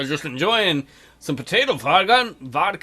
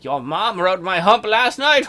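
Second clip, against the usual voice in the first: louder smug retort; crude dad joke voice; 2 semitones higher, 6 dB louder than usual. Retold or imitated. Chief Dan answers his son, louder and smug. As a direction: toss it off smugly. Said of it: "He's like".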